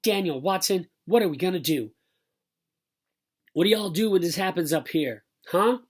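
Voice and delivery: lightly Southern, fretting mother; worried Southern drawl. A narrator's reading. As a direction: demand help in a Southern accent. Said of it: "Mama started talking Southern style when she got worried".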